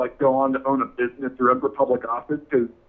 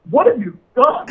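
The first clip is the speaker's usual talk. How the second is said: shocked cry; 11 semitones higher, 5 dB louder than usual. Retold or imitated. Horrified at friend's microwave mistake.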